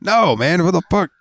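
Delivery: high, startled "what the"; incredulous. Real, not acted. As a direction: jump up high in disbelief. Reacting to friend's answer.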